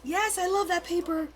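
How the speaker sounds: high squealing yes; thrilled at the paper; excited squeal. Retold or imitated. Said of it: "I'm like".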